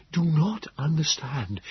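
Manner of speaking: high, slow, labored creature voice; gasping. A narrator's reading. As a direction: gasp it out word by word. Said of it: "he gasped".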